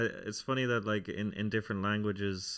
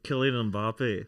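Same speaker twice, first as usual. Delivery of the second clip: slow, louder Scottish accent; 6 dB louder, slower than usual. Shown as a demonstration. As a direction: try a drawn-out Scottish football name. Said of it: "Scottish accent".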